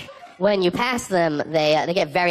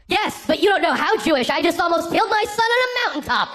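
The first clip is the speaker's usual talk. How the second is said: higher, solemn mock patriarch; mock biblical Abraham; 12 semitones higher than usual. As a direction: announce it like a grave prophet. Answering the Hasidic men, playing Abraham.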